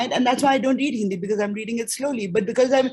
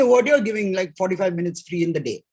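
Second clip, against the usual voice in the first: indignant parent; 2 semitones lower than usual. Acted. Parents objecting to free time at school, indignant. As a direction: protest like an affronted parent.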